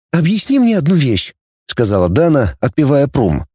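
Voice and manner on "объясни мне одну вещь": a touch higher, curious; lightly voiced girl Dana. A narrator's reading. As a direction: ask like a curious young woman. Dana asks. (слегка девичий голос, с любопытством)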